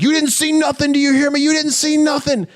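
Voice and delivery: high, pushed mock threat of a thug; imitated menacing threat. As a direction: lean in and hiss the warning, hammed-up. Artie slams and threatens Ricky.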